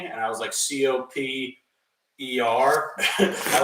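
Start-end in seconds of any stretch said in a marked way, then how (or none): 0.5-2.9 slow spelling. Retold or imitated. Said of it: "left the P out".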